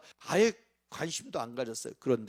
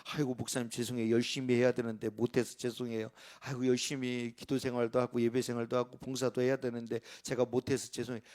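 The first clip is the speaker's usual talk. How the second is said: lightly voiced sorry church member, a bit softer; apologetic churchgoer; 5 semitones lower, 4 dB quieter than usual. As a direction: mimic a contrite congregant, lightly. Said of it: "우리 교인들이 늘 하시는 말씀". (목사에게 사과하는 교인 흉내, 살짝 낮고 조용하게)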